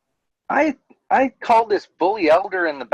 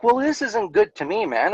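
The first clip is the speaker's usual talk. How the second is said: retold outburst, raised higher pitch; lost it; 5 semitones higher than usual. Telling off the bully elder, upset raised retold outburst. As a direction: blurt it out, fed up, half-reliving the anger. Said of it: "I lost it".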